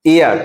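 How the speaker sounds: এয়ার said "air", no H sound; pronunciation demo. Shown as a demonstration. Teacher showing students heir sounds like "air". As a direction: say এয়ার as plain "air", silent h. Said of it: "উচ্চারণটা".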